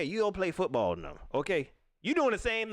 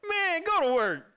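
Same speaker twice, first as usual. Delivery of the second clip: high, loud laughing jab; laughing retort; 12 semitones higher, 5 dB louder than usual. Real, not acted. Telling the fan to go to work, laughing. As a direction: laugh and tell him off.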